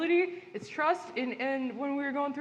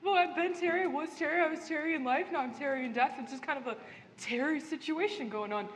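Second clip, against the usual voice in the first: chirpy ghost Terry. Acted. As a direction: play a cheerful ghost bureaucrat.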